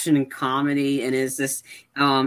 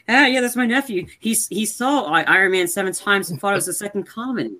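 imitating Downey, pitched up high and showy; retold Downey line; 6 semitones higher than usual. Downey introducing the nephew, hammed-up high mock voice. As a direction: ham up Downey's boastful intro, higher voice.

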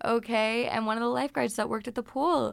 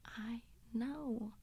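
quiet retort; 12 dB quieter than usual. Retold or imitated. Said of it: "I was like".

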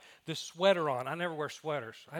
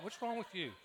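laughing repeat; 3 semitones higher, 6 dB quieter than usual. Retold or imitated. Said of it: "That's what I thought".

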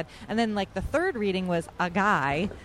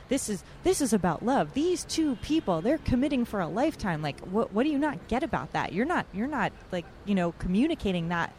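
retold scolding; 2 semitones higher than usual. Retelling priest's scolding lecture.

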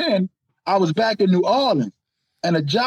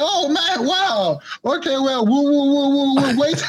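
high, flustered mock interviewer stammering the woos; imitating flustered manager; 5 semitones higher than usual. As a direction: play the startled manager losing his words. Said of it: "the guy was like".

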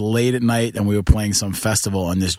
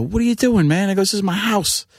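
calm; 11 semitones higher than usual. Retold or imitated. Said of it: "I just talked to him calm".

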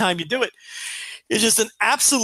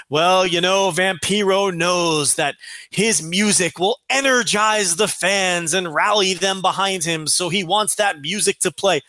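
announcer spin; slower than usual. Retold or imitated. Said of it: "mock Stryker announcer quote".

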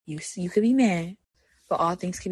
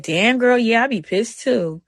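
sassy self-talk; 3 semitones higher, 5 dB louder than usual. Retold or imitated. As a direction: scold yourself like a sassy best friend, then forgive. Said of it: "I be like".

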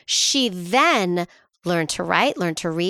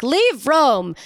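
higher-pitched mock banishment command; mock order; 5 semitones higher, 4 dB louder than usual. Officials half-heartedly banishing a man, mock order. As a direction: play at ordering someone out. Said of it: "They were like".

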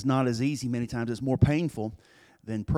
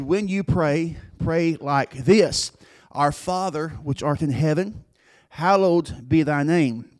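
solemn prayer recital. Acted. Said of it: "He just said".

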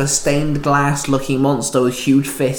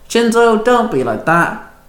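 moaned; 7 semitones higher than usual. A narrator's reading. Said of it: "Penny moaned".

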